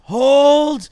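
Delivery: high, loud drawn-out command; Spartan battle cry. Acted. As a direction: bellow it like a Spartan holding the line. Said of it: "Like Spartans".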